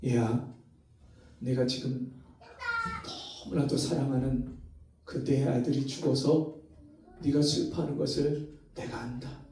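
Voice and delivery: low, soft, gentle fatherly voice; tender voice of God. Retold or imitated. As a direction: speak softly like a consoling father. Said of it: "주님이 말씀하시는 거예요". (낮고 부드러운 하나님 아버지의 위로)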